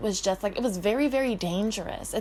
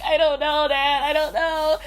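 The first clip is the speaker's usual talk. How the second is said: put-on valley girl accent; 7 semitones higher, 6 dB louder than usual. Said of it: "why are you so valley?".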